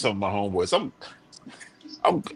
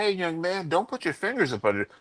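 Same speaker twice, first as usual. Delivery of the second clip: softly called, mild warning; a quick, unaggressive caution; not angry, not aggressive; 3 semitones higher, 4 dB quieter than usual. Retold or imitated. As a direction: keep the correction gentle and unthreatening. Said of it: "I wasn't angry, I wasn't aggressive".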